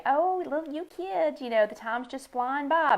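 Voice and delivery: a hint of a doddering elder lecturing kids; mock old person sighing about time; old people. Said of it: "all old people say".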